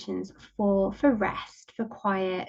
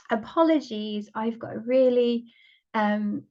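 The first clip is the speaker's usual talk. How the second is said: croaky voice. Real, not acted. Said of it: "kind of croaky voice".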